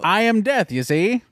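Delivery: grim reaper voice. Retold or imitated. Seventh Seal death parody.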